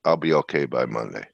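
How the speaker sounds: tongue scraping on broken tooth; careful speech, sore mouth. Real, not acted. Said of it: "I'm having a hard time talking".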